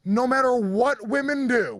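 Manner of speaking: high, slow mocking gush; sarcastic sing-song praise. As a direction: parody the cheerleaders of brave women, drawn out. Mocking the "brave women" cliché.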